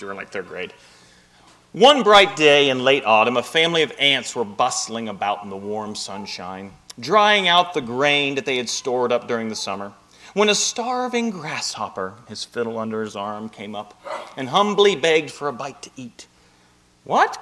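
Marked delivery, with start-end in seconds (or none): 1.7-16.3 fable read aloud with lively character voices; story narration. Acted. Pastor reading fable to congregation, story narration. 17.0-17.4 high, sharp startled question; surprised cry. A narrator's reading. Ants startled by begging grasshopper, surprised cry. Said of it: "cried the ants in surprise".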